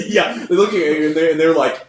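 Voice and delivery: cracking up mid-sentence; bursting with laughter; laughing. Real, not acted.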